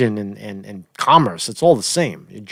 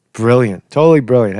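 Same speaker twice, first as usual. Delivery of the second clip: sarcastic praise; 5 dB louder than usual. Acted. Mocking the number crunching.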